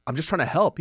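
defensive friend. Retold or imitated. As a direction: whine that you're only helping.

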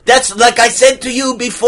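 put-on muddled accent leaning Hispanic; Hispanic-tinged accent. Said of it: "coming into a little Hispanic now".

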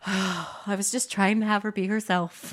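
soft, slow imitation of a sheepish father; deflated dad. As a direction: sigh it out, quietly defeated, as Dad. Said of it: "My dad just kinda looks down".

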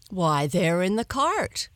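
put-on old fisherman replying. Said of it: "he replied".

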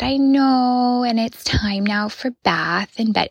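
lightly acted parental sympathy; soothing mother. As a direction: reassure an upset toddler at bedtime. Mother soothing a sobbing toddler.

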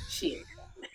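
high squeal through laughter; laughing squeal. Real, not acted. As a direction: squeal it while cracking up. Repeats while laughing.

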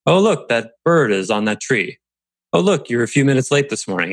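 light offhand "Oh, look" as if spotting a rainbow; breezy, pointing things out; casual noticing. Shown as a demonstration. Boss to late employee, offhand and light. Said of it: "you say it like you notice".

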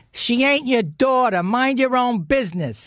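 high-pitched mock scolding; retold angry mother. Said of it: "and she goes".

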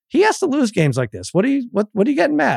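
mild mock scolding; imitated scolding wife. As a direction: mimic an exasperated wife, pitch lifted. Wife scolds him, retold.

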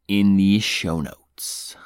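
slow whispered aside. Pretend. Host slipping listeners a secret plug, slow whisper.

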